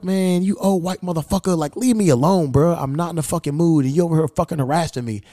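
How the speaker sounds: irritated protest. Retold or imitated. Traveler telling off an old man harassing him, irritated. Acted angry reply to harassing stranger.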